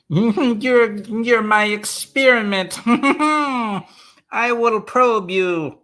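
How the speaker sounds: giggling through a silly high joke; high, giggly mock-sinister tease; laughing. Real, not acted. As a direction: laugh it out while teasing the viewers. Playful joke to viewers, laughing.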